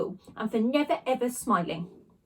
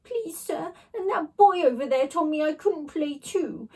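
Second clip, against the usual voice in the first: sly bully; 6 semitones higher, 3 dB louder than usual. A narrator's reading. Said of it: "added Brendan the bully".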